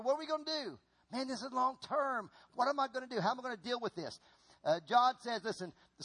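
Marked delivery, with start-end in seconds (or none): 0.0-4.2 higher-pitched, lightly anxious questioning; mild acted worry. People surrounded by circumstances wondering aloud, mildly acted worry. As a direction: voice a touch of mock fretting.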